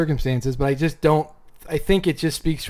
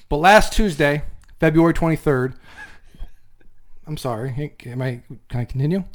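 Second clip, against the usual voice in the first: grand, louder, mock-solemn thank-you speech; mock acceptance speech; 4 dB louder than usual. Co-host delivers an overblown award speech to Jeff, mock-solemn. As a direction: hams up a heartfelt win speech to his co-host. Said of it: "That was just moving".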